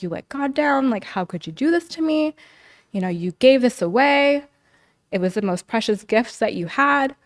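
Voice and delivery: mother's accusing words, mildly acted; retold reproach. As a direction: quote her reproach with mild indignation.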